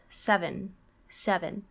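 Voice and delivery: seven as "sev'n"; seven with no vowel before the final n; dropped second E. Shown as a demonstration. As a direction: run the v straight into the n in seven. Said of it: "the second E is usually dropped".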